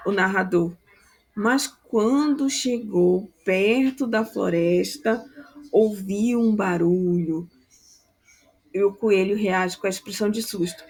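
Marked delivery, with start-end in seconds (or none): 1.3-7.5 put-on slow, deliberate storyteller read for children; slow narration. Shown as a demonstration. Teacher shows the narrator reading slowly for a children's play. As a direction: draw out each phrase so the signers can keep up. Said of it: "ele deve falar devagar e com entonação".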